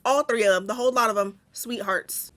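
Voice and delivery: soothing, affectionate correction. Pretend. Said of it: "I wanna change my tone so quickly".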